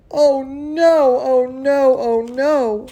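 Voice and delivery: mock alarm. Pipe bursts in story.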